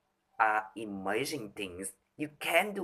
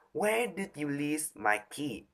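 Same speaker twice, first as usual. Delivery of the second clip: Where lifted higher; the key question pitched up; higher pitch take; 4 semitones higher than usual. Shown as a demonstration. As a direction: ask it on a raised pitch. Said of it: "you can do just with pitch".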